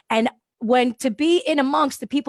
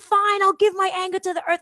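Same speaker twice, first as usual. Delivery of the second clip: grudging; 8 semitones higher than usual. Retold or imitated. Grudging reply to the tree.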